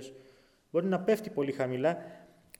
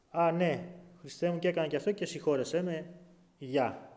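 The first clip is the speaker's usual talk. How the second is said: flippant prayer. Pretend. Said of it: "Πηγαίνω στην προσευχή".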